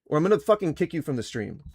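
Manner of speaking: loud, furious yelling; angry shouting. Real, not acted. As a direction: raise your voice in outrage. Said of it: "just because I raised my voice".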